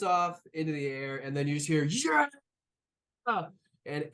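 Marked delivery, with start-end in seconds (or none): 1.8-2.3 high whooping cheer; crowd cheer. Acted. Crowd cheers after gunshot.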